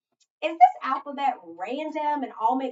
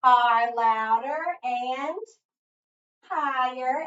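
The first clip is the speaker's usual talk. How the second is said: LOUDER punched out loud and drawn out, HIGHER lifted; 6 dB louder, slower than usual. Shown as a demonstration. Teacher defining an accent to pupils, louder and higher. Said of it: "we know that accent means".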